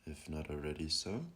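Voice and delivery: calm, unhurried meditation guide; guided meditation. Acted. Guiding listeners to breathe and settle, calm meditation voice. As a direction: ease them into stillness with long pauses.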